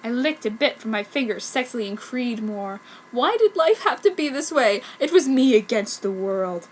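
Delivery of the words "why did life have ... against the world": melodramatic despair. Acted.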